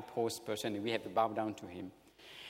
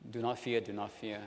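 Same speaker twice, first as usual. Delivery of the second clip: mild reassurance, softening on the repeat; comforting. Acted. Joseph comforting brothers who bow down, mildly soothing. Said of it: "Comforted them".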